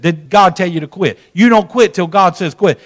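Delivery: imitating a gruff pastor's firm questioning; kinda gruff. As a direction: challenge him brusquely. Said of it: "It was kinda gruff".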